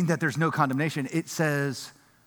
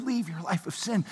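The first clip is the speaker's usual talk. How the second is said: pleading softly; 2 semitones higher, 6 dB quieter than usual. Retold or imitated. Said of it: "very emotion in his voice".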